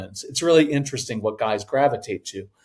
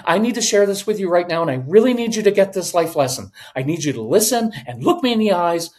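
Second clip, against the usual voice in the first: fast, raised, pressing insistence; anxious forcing; 3 semitones higher, faster than usual. Acted. Anxious parent pushing a life lesson on a child, forcing it. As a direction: push it urgently, words tumbling out. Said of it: "anxiety causes forcing".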